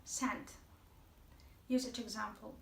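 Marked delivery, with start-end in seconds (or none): 0.0-0.5 "Scent" said as sent, silent C; "Scent" spoken slowly as a model word. Shown as a demonstration. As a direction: say "Scent" with no K sound, just sent. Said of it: "but C is not pronounced".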